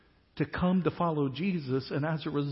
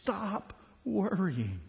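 reassuring; 2 semitones higher, 4 dB quieter, much slower than usual. Acted. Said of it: "he says to them".

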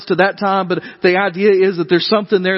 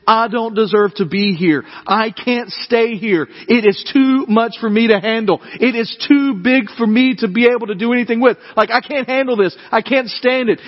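higher, pleading voice of despair; overwhelmed dread; 6 semitones higher than usual. Acted. Isaiah overwhelmed before God, pleading despair. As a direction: plead that it's all too much. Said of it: "His first thought is".

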